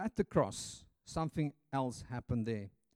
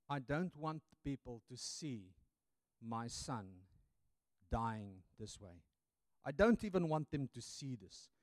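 hushed grieving father; 3 semitones lower, 5 dB quieter than usual. Acted. God shielding his dying son.

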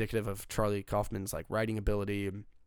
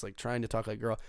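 ordinary talk

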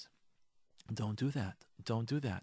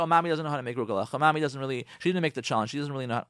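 mocking husband; 5 semitones lower, faster than usual. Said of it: "He insults you in front of the kids and says to you".

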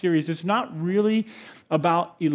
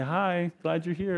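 friendly greeting; 6 dB quieter, slower than usual. Shown as a demonstration. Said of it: "just kinda wave and say".

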